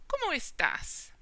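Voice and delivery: "¿Cómo estás?" with "estás" stressed es-TAS; stress on last syllable. Shown as a demonstration. Teacher giving an example question, stress on the end of "estás". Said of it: "spelt the same except for the accent".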